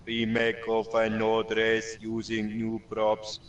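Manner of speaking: flat, low robotic monotone; flattened pitch. Shown as a demonstration. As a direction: read it like a robot.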